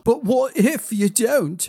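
high, drawn-out anxious question; insistent pleading. A narrator's reading. Child pressing the prince to promise return, pleading. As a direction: press the worry, stretching the words.

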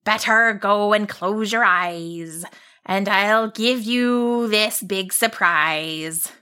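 slow mysterious monster. Acted. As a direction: monster teasing a surprise.

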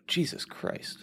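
hushed, voiceless oath; real startled whisper. Real, not acted. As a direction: gasp it under your breath, taken aback. Startled by Siri mid-sentence.

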